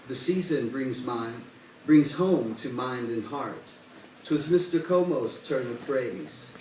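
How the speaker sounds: lightly cadenced holiday verse; measured holiday poem recital; poetry reading. Acted. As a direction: read it as rhymed verse, pausing at line ends. Reads holiday poem aloud.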